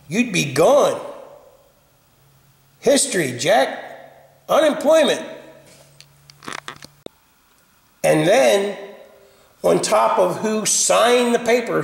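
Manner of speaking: fired-up rant, half laughing; mad rant. Real, not acted. Man venting about the prop maker, worked-up and half amused. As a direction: rant on about firing everybody. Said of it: "Oh, I'm mad".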